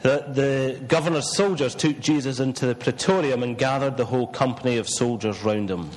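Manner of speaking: measured, solemn Bible reading; scripture reading. Acted. Minister reads the crucifixion to the congregation, measured scripture reading. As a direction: read it out deliberately, pausing between phrases.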